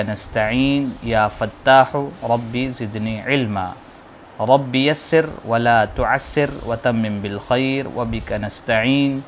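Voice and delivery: slow, chanted Arabic prayer; measured prayer recitation for pupils; slow dua recitation. Shown as a demonstration. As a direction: recite the dua slowly for students to repeat. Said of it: "آپ لوگ بھی دہرا لیں".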